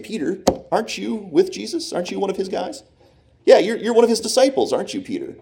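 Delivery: high-pitched, prying mock questioner; nosy accuser. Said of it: "someone comes up to Peter saying".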